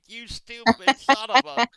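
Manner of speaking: furious mock yell, slow and loud; slow, loud angry outburst. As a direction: yell it like she's going off on him. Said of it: "going off on me".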